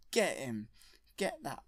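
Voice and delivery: mock shouted command to a beast; acted attack command. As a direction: set the monster on him with a punched "get". Creature keeper orders an attack.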